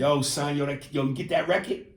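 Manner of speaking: casual New York street accent. Shown as a demonstration. Host demonstrating East Coast accent to Andy, New York accent. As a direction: ask it like an East Coast local. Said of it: "That's an accent".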